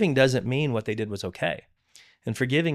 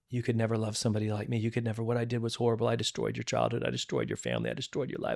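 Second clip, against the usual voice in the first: retold sobbing; faster than usual. Stepmother sobbing to him over coffee, lightly imitated tears. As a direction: mildly imitate her crying confession. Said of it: "uncontrollable sobbing".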